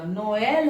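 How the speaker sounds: नोएल in two syllables, no-EL; E also sounded. Shown as a demonstration. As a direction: keep the E audible after the O in नोएल. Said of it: "ई भी pronounce होगा".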